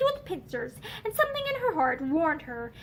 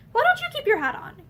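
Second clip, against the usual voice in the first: irritable demand; 11 semitones higher than usual. A narrator's reading. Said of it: "he demanded irritably".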